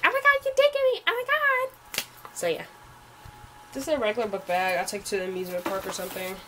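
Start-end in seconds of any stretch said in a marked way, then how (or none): 0.1-2.1 imitating herself, high squeal slowing at the end; squeal, then draw out the last oh my God; retold stunned delight. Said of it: "And I was like".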